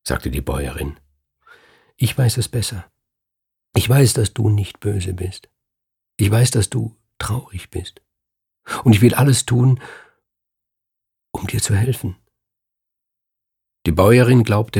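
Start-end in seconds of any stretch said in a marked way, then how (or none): 2.0-12.2 a hint of a kind farmwife, a bit higher, pleading; lightly voiced earnest farmwife. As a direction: reach out to her, eager to help. Bäuerin spricht der Bösen zu.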